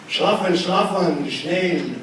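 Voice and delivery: loud German bedtime bark; loud German order to sleep; mock German yelling. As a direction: imitate granddad barking bedtime. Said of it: "yelled at me".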